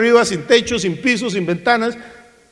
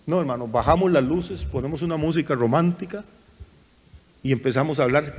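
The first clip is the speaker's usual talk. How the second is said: softer, lower, like lights dimmed; hushed mood voice; 5 semitones lower, 7 dB quieter than usual. Shown as a demonstration. Preacher dims the lights for the altar call, hushed. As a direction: soften the voice to set a romantic mood. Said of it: "cambiamos el tono de voz".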